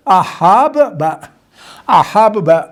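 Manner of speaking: احب با with the ب doubled and held, said slowly; slow tajweed demo of احب با. Shown as a demonstration. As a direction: draw out the ب in احب با as a doubled, stressed letter. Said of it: "یہ با اس با میں مدغم ہو کے".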